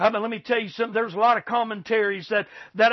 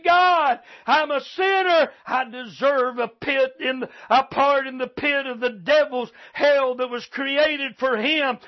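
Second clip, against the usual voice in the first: sinner's prayer. Retold or imitated. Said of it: "You just need to say".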